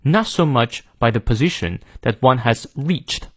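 British reading, silent r ending "measured"; careful British model, long vowel in "reached"; British accent. Shown as a demonstration. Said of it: "后面那个R不念啊". (英式发音示范，"measured"不念r)

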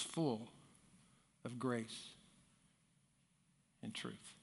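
softening to a near whisper; hushed. Acted. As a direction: let the words fade reverently. Quoting verse, hushed.

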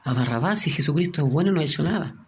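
mildly agitated, urgent pleading protest; retold desperation. Preacher retells dreamer pleading to spare Jesus, desperate. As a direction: plead on another man's behalf, a touch desperate. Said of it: "él se empezó a desesperar".

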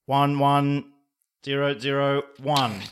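flat robot voice, no emotion. Shown as a demonstration. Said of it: "Say it like a robot".

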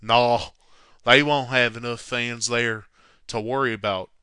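put-on Billy Martin's accent. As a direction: put on the manager's accent, loudly at first. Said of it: "I'll do it in his accent".

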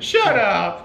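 shouting. Retold or imitated. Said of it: "You're gonna be like".

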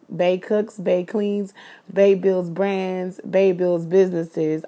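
loud, punchy self-hype list; proud boast. Real, not acted. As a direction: brag it out, each line hitting harder. Bragging chant about herself.

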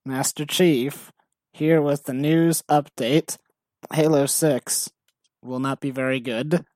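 slow, drawn-out announcer voice; a hint of a gruff Master Chief. Master Chief news update voice.

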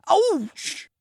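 very high sudden yelp; high-pitched cut-off howl; Hagrid yelping in pain. Acted. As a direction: cry out as if hit on the nose. Giant knocks Hagrid over.

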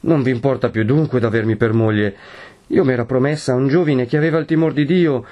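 mild anguish climbing to high intensity; heartbroken but resolute. A narrator's reading. Lucia confronts her betrothed, heartbroken yet resolute. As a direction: build from sorrowful reproach to firm protest. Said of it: "con voce accorata ma risoluta".

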